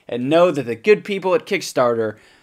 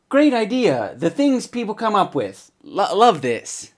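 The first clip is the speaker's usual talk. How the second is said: mock gushing commenter; 5 semitones higher than usual. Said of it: "This dumb comment comes from Dot".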